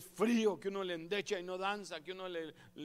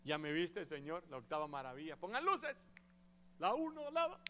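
mock showing off. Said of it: "presumiéndole al Señor".

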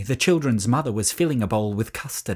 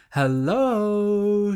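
higher, bright sung greeting from the mother; cheerful mother; 8 semitones higher than usual. A narrator's reading. Mother singing out a greeting as she opens the door. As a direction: open the door with a cheerful hello.

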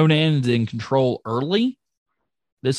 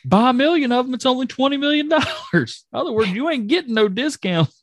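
Scott Hall impression; 11 semitones higher than usual. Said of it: "Scott Hall".

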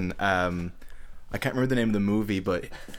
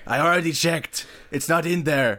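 irate Arnold; 5 semitones higher than usual. Acted. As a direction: push back like a furious customer. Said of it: "You are Arnold Schwarzenegger".

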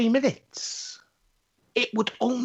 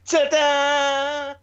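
mock ta-da; 3 semitones higher, 4 dB louder than usual. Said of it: "people putting their faces up".

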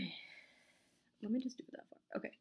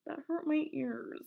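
high, loud, drawn-out shock; shocked outburst; 8 semitones higher, 7 dB louder, slower than usual. Real, not acted. Startled by a noise, yelling to Caesar in shock. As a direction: cry out as a noise stabs your ears.

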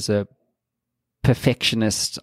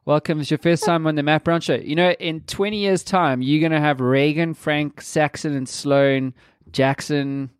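higher, singsong welcome to a little one; 5 semitones higher than usual. Real, not acted. Father welcoming baby Sax to his first show, higher baby talk.

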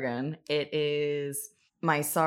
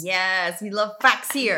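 louder, higher gushing; excited; 4 semitones higher, 7 dB louder, slower than usual. Real, not acted. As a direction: gush about it with a laugh. Joking enthusiasm about facts.

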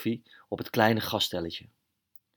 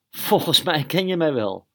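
Max the mouse voice; 5 semitones higher, 4 dB louder than usual. Acted. Max speaks in character.

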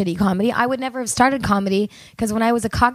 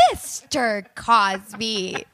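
drawn-out disapproving Mister Cosby; slow scolding Mister Cosby; 4 dB quieter, much slower than usual. Retold or imitated. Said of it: "I'd say".

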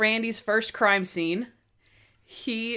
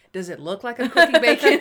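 Natalie; 3 semitones higher, 8 dB louder than usual. Retold or imitated. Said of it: "and she's like".

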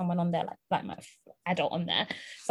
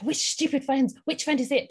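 higher-pitched, mildly indignant demand; retold angry mum; 5 semitones higher than usual. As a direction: mimic a mum interrogating her child. Mum's angry questioning, retold.

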